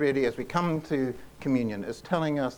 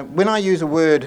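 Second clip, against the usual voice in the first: louder, raised pitch, mildly scornful quote; 4 semitones higher, 11 dB louder than usual. A narrator's reading. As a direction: read it out with a touch of scorn. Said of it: "in a rather scornful tone".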